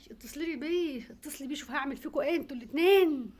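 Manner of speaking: enraged mother screaming; furious shout. Acted. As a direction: yell the threat at them. Mother explodes in rage.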